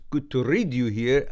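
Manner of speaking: touch of a Scottish accent on "read"; unintended hint of Scottish. Real, not acted. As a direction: say it with a slight Scottish lilt. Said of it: "Scottish accent when I said".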